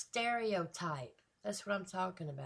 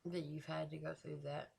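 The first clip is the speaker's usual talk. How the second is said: sincere sympathy; 2 semitones lower, 5 dB quieter than usual. Real, not acted. Listener apologizing to the rapper for what he went through, sincere sympathy. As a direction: speak softly in heartfelt sympathy.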